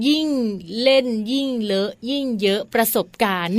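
carefully delivered catchphrase, afraid of a slip; rehearsed slogan recital. Real, not acted. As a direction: recite a memorised slogan with care. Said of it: "นี่นั่งท่องมาตั้งนานนะ กลัวจะพูดผิด". (ท่องสโลแกนอย่างตั้งใจ)

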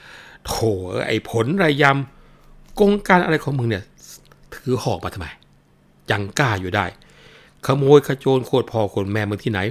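slow, loud, drawn-out curse; mother cursing the old man with the spear, loud and angry. Acted. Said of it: "ก็ร้องด่าบอกว่า".

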